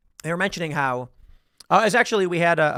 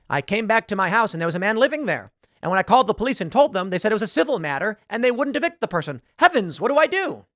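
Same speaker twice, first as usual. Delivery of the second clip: higher-pitched mock bewildered complainant; hammed-up helplessness, rising high on the final question; helpless homeowner; 5 semitones higher than usual. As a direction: imitate a hapless victim pleading for advice. Mimics helpless homeowner in video.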